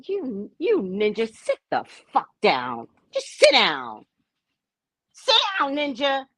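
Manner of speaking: mock angry order. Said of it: "you're like".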